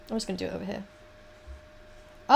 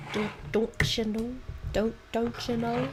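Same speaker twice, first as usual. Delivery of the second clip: trying Midwestern vowels on a questioning catchphrase; attempted Midwest accent. Shown as a demonstration. Practising an accent they love but cannot do, Midwest accent. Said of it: "I love a Midwest accent".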